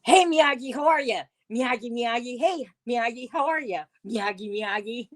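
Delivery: a light put-on voice hailing Miyagi; mock impression. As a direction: mimic someone greeting Miyagi over and over. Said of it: "I'll give you two hints".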